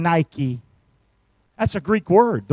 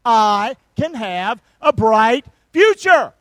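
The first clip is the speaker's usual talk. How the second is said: louder and slow, drawing it out; loud, slow congregational call; 5 dB louder, slower than usual. Shown as a demonstration. Pastor rallying congregation, loud and slow. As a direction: lead the crowd loudly, stretched out. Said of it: "Come on, now help me this morning".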